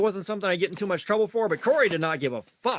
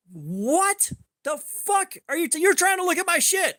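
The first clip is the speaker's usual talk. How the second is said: incredulous; 9 semitones higher than usual. Retold or imitated. Telling how he reacted to his friend, high incredulous voice. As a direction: stretch it out in mock disbelief.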